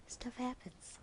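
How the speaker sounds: resigned whisper; whispered shrug. Real, not acted. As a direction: shrug it off under your breath. Resigned aside.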